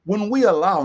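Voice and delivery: "When we allow" set apart with weight; measured, emphatic "When we allow"; slow, deliberate. Real, not acted. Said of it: "I wanna say it slowly".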